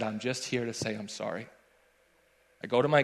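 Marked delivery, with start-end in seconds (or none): 0.0-1.5 swallowing hard. Retold or imitated. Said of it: "I swallowed hard".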